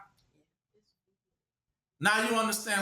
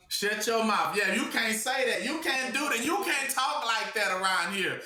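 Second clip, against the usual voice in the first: higher-pitched mock telling-off; rapid-fire string of mock prohibitions; mock scolding; 4 semitones higher than usual. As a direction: shut someone down, imitating an indignant objector. Acting out those who silence you.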